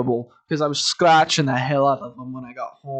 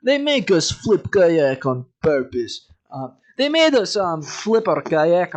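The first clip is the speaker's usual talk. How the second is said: slight Russian accent; 3 semitones higher, 4 dB louder than usual. Shown as a demonstration. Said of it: "I'm going slightly Russian".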